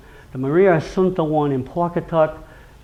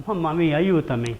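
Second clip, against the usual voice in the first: pleading for help; 2 semitones higher than usual. Shown as a demonstration. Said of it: "I'm seeking help".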